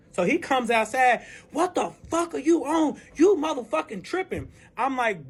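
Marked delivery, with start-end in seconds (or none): 1.5-4.5 higher-pitched outraged man; retold incredulous outburst; angry confrontation. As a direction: mimic him coming out indignant. Acts the man confronting her.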